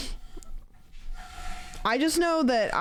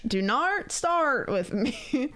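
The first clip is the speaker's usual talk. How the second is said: slow, higher Australian attempt that turns British; botched Australian accent; 4 semitones higher, much slower than usual. Streamer retrying Australian friend's phrase, botched British-sounding Australian accent. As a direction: stretch it out in would-be Australian. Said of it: "That's even more British".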